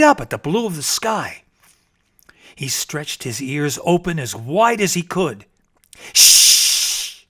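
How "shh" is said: whispered shh; hushing. Acted. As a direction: hush the bear so you can listen. Rabbit hushes to listen.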